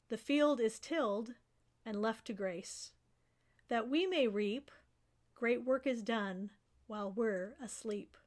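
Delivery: measured verse reading, paused between lines; poem recitation. Acted. Professor shares a second poem with students, measured recitation.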